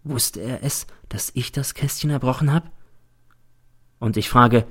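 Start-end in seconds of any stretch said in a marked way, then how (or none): 0.0-2.7 hushed, voiceless whisper; whispered thought. A narrator's reading. Teacher wondering privately about his secret, whispered.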